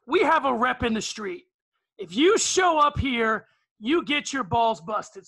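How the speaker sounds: slow, loud tough-guy proclamation; mock tough shout. Reciting his trash-talk tweet to the panel, loud and slow. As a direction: bellow the tweet's slogan slowly.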